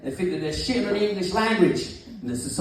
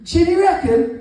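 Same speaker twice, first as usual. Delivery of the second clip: high, loud sing-song chinny reckon; mocking a bullshitting classmate, sing-song; schoolkid taunt; 9 semitones higher, 3 dB louder, much slower than usual. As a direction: drawl chinny reckon like a playground jeer. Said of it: "you go".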